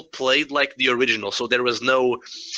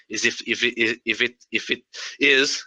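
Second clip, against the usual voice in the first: stuttering. Real, not acted. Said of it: "sorry, I'm stuttering".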